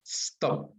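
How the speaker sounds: "Stop" as one single sound; one-syllable demo. Shown as a demonstration. Teacher showing the class the verb is one sound, one-syllable demo. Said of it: "Una sola sílaba, un solo sonido".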